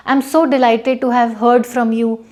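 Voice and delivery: slow, lightly glad example read; a hint of delight. Shown as a demonstration. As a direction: read it slowly with mild delight. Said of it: "आप generally बोलेंगे".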